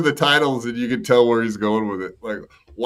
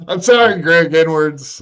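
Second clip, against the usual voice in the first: hammed-up apology; 4 semitones higher, 6 dB louder than usual. Mock apology, loud.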